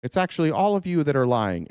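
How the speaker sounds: meek Trump. Retold or imitated. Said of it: "and he's like".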